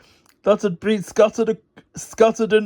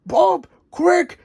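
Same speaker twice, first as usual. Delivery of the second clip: yelling; 10 semitones higher than usual. Acted. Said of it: "he yelled".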